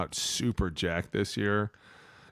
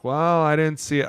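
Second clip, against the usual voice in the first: mocking ref excuse; 7 semitones higher, 4 dB louder than usual. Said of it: "I hate how they say that".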